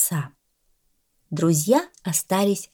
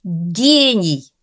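delighted praise; 5 dB louder than usual. Acted. Cat delighted at dog.

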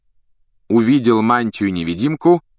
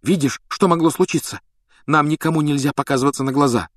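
higher-pitched, urgent scolding; reproachful; 6 semitones higher than usual. A narrator's reading. Hermione warning Harry not to be seen, reproachful. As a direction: chide him in a raised pitch. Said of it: "укорила Гарри Гермиона".

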